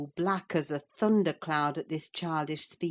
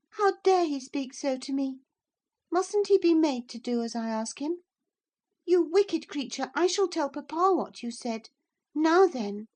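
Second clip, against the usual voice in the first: high, loud outraged scolding; a little miss threatening to tell papa; indignant spoilt girl; 11 semitones higher, 6 dB louder than usual. A narrator's reading. Cathy threatens Hareton, high and indignant. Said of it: "Cathy's outraged threat".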